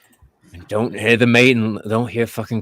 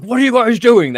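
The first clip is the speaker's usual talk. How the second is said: confused guard; 13 semitones higher, 7 dB louder than usual. Acted. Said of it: "he goes like".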